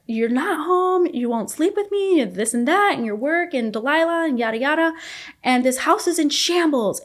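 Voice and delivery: high, loud exasperated yelling; retold yelling. Wife yelling at husband over the wrecked house, loud and high. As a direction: yell it out, pitch way up. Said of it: "I remember yelling out".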